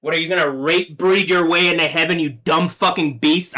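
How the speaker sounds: real rage, voice pushed up; angry outburst. Real, not acted. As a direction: hurl it at them in real anger. Ranting at attackers.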